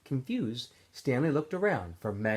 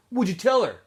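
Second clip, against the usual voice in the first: put-on higher, louder teen voice; Magnet's voice; 9 semitones higher, 6 dB louder than usual. A narrator's reading. Magnet asking Stanley what he told the warden, high and loud. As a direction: pipe up from the next hole.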